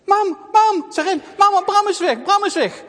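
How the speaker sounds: high, loud alarmed cry for mother; frightened calling; panicked child. Acted. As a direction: shout the bad news in panic. Girl runs crying for mother.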